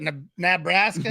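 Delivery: slow Nebraska with a full NAB up front; imitated local pronunciation. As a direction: draw out Nebraska as NAB-raska, mimicking locals. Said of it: "I thought that's how they said it".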